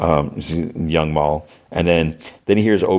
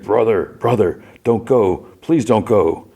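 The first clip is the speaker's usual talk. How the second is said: lightly voiced pleading boy, pitched higher; young brother calling out; 4 semitones higher, slower than usual. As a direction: call out a higher, imploring plea. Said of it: "call out".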